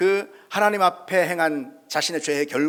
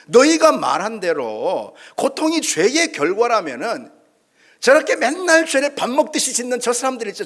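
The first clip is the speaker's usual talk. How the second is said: loud, higher challenging retort; heated rebuttal; 5 semitones higher, 4 dB louder than usual. Retold or imitated. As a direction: throw it back at the friends. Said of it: "욥이 그렇게 반박하고 있는 거죠".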